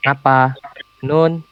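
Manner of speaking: unhurried, respectful "Ngapa? Nun." to an elder; reply gently as to someone you respect; mild, deferential answer to an older person; calmer, polite tone. Shown as a demonstration. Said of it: "lebih kalem".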